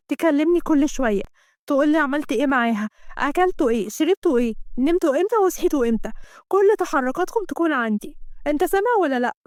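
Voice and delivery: lightly acted bossy lover; insistent female lead, mildly played; demanding jealous woman.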